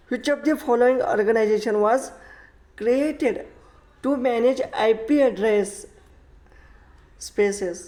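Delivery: slow, deliberate reading of the question; slow classroom reading. Shown as a demonstration. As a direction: spell the question out slowly for the class. Teacher reads exam question aloud.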